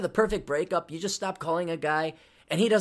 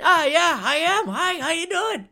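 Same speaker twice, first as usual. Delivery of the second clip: higher, laughter breaking through the greeting; holding back laughter; 9 semitones higher, 4 dB louder than usual. Retold or imitated. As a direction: fight the giggle and lose. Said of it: "I tried it so hard not to laugh".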